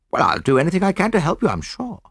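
put-on high, quick, eager young officer; young soldier. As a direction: lift the voice and rattle it off helpfully. Narrator voices the young soldier.

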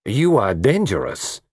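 slow, teasing emphasis; drawn-out flirtatious insistence; laughing. Acted. Lola telling the detective what he is, amused and slow. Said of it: "she laughed".

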